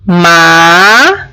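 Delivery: "Ma-ca-co" said slowly, syllable by syllable; split into syllables. Shown as a demonstration. Teacher splits "Ma-ca-co" into syllables for students. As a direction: break "Ma-ca-co" apart into three beats. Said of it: "olha só a palavra macaco".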